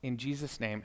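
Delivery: quiet, measured mealtime prayer; softly retold table grace; saying grace. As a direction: pray simply, phrase by phrase. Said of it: "prayed for us".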